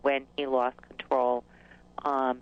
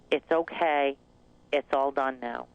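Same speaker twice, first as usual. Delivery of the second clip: soothing mantra. Retold or imitated. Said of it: "it was like this mantra of".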